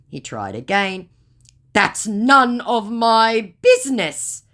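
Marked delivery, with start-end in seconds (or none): 1.7-4.4 high, slow, louder mock; sulky scammer reply; mock dismissive scammer. Voicing scammer.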